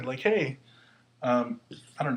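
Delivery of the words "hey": higher-pitched demonstrative call; calling for attention. Shown as a demonstration. Teacher glossing oye for students, calling for attention. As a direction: call out as if to catch someone. Acts out English equivalent of oye.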